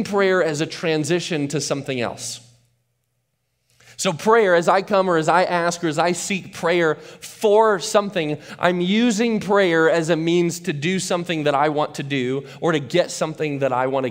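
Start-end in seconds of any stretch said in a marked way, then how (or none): 5.9-8.4 "for" drawn out and set apart; stress on FOR. Shown as a demonstration. Preacher showing the congregation the misplaced emphasis, stressing "for". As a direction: lean hard on the word "for". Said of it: "put the emphasis on the word".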